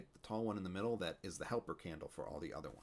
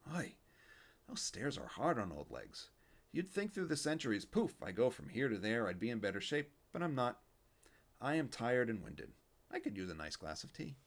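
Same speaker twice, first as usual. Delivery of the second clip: put-on a kvetching old man, raised up; Yiddish old man; 4 semitones higher than usual. Fischel tired after stairs.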